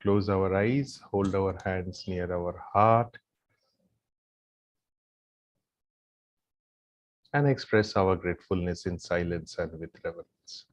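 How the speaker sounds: low, soft meditative guidance with long pauses; guided gratitude meditation. Real, not acted. Yoga teacher leading the group in silent gratitude, meditative guidance. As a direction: lead them gently into silent gratitude, leaving long pauses.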